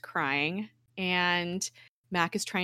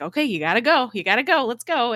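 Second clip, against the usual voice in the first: raised, louder, repeated urging; urgent hurrying; 5 semitones higher, 6 dB louder, faster than usual. Retold or imitated. Radcliffe pushing the others to leave, urgent. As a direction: hustle them out the door.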